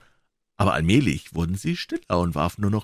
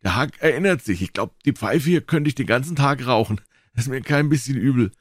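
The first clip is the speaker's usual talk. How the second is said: put-on high, eager boy's voice; high-pitched excited kid; excited boy Joe, boasting; 7 semitones higher than usual. A narrator's reading. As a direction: rattle on as a boy keen to join in.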